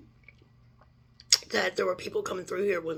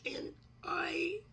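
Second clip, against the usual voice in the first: crying; 9 semitones higher, 4 dB quieter than usual. Real, not acted. Breaks off crying.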